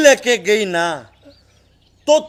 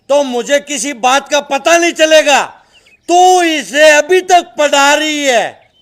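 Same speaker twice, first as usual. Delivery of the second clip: stern tirade with hard-hit words; angry scolding. Acted. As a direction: berate them like a menacing father. Father scolds and threatens mother and daughter. (गुस्से भरी डांट)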